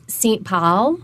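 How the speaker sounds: Minnesota "Saint Paul", flat open vowel. Retold or imitated. Linguist echoing a caller, flat Minnesota accent. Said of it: "that, like, really flat Saint Paul".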